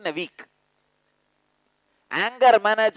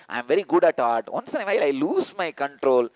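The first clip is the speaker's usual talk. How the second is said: mock excuse; 4 semitones lower, faster than usual. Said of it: "who has not used this word".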